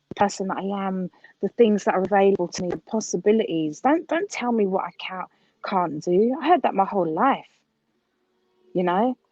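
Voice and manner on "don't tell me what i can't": usual speaking voice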